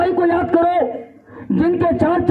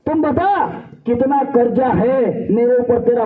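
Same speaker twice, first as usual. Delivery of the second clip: stubborn insisting. Retold or imitated. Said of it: "फिर बेटा जिद करता है".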